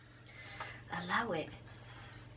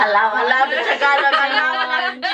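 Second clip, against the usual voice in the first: excited shouting; 3 semitones higher, 6 dB louder than usual. Acted. Hyped joking about slang.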